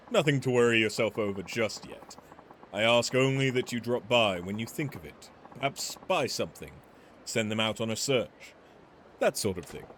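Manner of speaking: lightly voiced courteous weapons smith; a measured, polite merchant pitching his trade; refined shopkeeper. Polite weapons smith explaining his business to Majima, lightly voiced.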